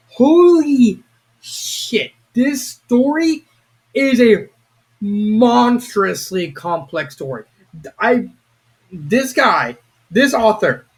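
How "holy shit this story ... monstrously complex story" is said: very slow, high, awed exclamation; drawn-out stunned disbelief; amazed. Real, not acted. Awed by the story's complexity.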